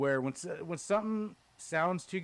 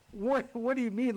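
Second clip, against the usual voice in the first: near tears; 7 semitones higher than usual. Retold or imitated. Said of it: "I'm almost in tears".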